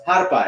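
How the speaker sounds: Harpa as "HAR-pah"; Spanish pronunciation. Shown as a demonstration. Teacher invites class to repeat, Spanish pronunciation. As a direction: model "Harpa" in two syllables, stress first. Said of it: "Why don't you try that".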